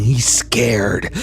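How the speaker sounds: a breathy whisper of fear. A narrator's reading. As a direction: whisper it close, like a secret. GM whispers the scared youth.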